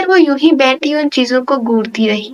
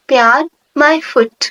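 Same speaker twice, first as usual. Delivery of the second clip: a touch of scorn, tossed off; understated disdain, dismissive; contemptuous; 2 semitones higher, slower than usual. Acted. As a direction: sneer lightly at the word love. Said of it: "حقارت بھرا لہجہ تھا".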